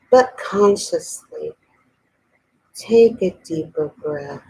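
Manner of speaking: unhurried voice leading a breathing exercise; guided meditation. Real, not acted. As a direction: ease listeners into relaxing, with long pauses. Leads a meditation.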